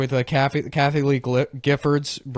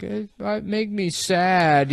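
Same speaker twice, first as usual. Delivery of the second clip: mock sad kid; 7 semitones higher, slower than usual. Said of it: "He's like".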